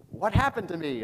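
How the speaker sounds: put-on a touch of a confused young man; lightly voiced young man. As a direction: ask it dazed and bewildered. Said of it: "I'm picturing the young man".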